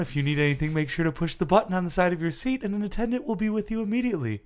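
measured, polite cabin announcement; lightly mocked airline attendant; flight attendant announcement. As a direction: gently recite the in-flight spiel.

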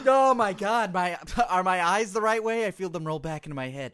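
recovering from choking, coughed out; words right after a choking fit; choking on a drink. Real, not acted. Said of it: "flat out choking you".

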